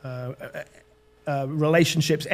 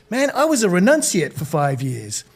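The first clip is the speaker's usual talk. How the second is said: lightly put-on American surfer voice; casual mock-American accent; 2 semitones higher than usual. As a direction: imitate an American dude recounting his past. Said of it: "this is my American accent".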